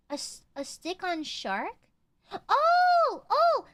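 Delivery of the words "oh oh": surprised. Real, not acted. Sudden realization about remora.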